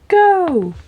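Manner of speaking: loud, high, drawn-out call; mock starting shout. Emperor starts the animals' race, calling out loudly.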